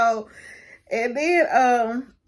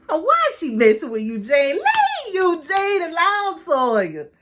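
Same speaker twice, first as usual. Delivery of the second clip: mock plea; 7 semitones higher than usual. Real, not acted. The vlogger begs Toya to leave Eugene alone, a mock plea. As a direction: plead for poor Eugene, half laughing.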